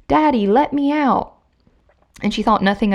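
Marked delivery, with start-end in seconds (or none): 0.1-1.3 put-on little girl crying. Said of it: "heard a little girl crying".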